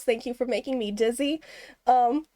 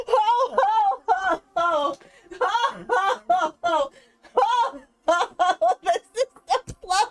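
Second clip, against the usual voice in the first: laughing; 4 semitones higher, slower than usual. Real, not acted. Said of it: "Oh, I'm crying".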